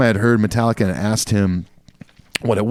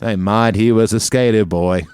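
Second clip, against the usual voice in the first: put-on Australian accent. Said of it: "sing in an Australian accent".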